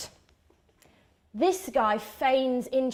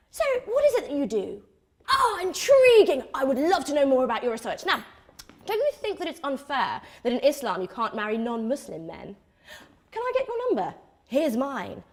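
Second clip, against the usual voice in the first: mock charming guy; faster than usual. Mocking the white guy.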